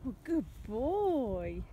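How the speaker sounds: slow tender praise. Real, not acted. Soothing pet.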